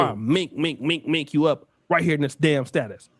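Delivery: low, mocking mink mink threat. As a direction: tease the chatter with a low mock threat. Mock threat to chatter.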